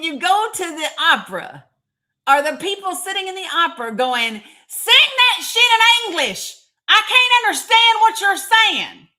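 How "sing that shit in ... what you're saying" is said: loud mock Tennessee hick voice, much higher; Northeast Tennessee accent. Mocking an opera-goer to the stream, loud Northeast Tennessee accent. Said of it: "that's my Northeast Tennessee accent that comes out".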